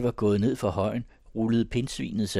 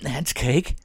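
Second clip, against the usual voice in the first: raised, insistent refusal; stubborn; 6 semitones higher, 6 dB louder than usual. Acted. Paul shaking off the man holding him, stubborn. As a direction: refuse loudly, higher and obstinate. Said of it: "sagde Paul stædigt".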